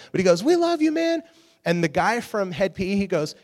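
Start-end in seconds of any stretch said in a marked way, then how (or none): 0.4-1.2 high, loud shouted declaration; mock shout. Praying guy shouting love back at the singer, loud. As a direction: shout it across the crowd with gusto.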